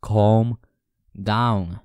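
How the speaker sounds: two separated, deliberate words; firm, with a pause between words; firm command. Acted. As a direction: order a panicker to settle, word by word. Slaps self, orders calm.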